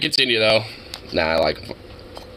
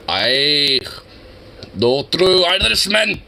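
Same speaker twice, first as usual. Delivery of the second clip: mock Irish accent; much slower than usual. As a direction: tease him in a put-on Irish accent. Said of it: "Paul, the Irishman".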